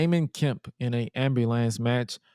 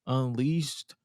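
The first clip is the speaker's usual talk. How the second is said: podcast host intro. Acted. Show intro over music.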